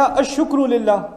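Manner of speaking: "الشکر للہ" drawn out slowly, syllable by syllable; deliberately slow "الشکر للہ"; slow teaching emphasis. Shown as a demonstration. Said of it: "اگر قرآن کہتا".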